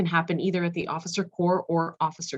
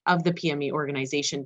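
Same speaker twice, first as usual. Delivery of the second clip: ordinary delivery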